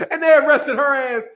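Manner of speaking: laughing through the line. Real, not acted. Laughing as he retells her arrest, said through laughter. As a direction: chuckle the punchline.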